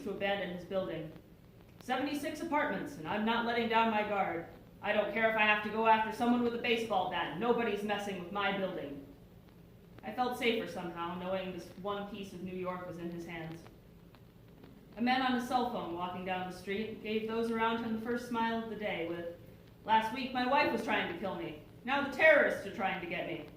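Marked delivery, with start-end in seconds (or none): 1.8-9.0 lightly voiced doorman, louder and insistent; defiant doorman. Acted doorman refusing to abandon his post. 19.8-23.5 louder, lightly acted wisecrack; wisecracking phone caller. Quoted man on his cell phone.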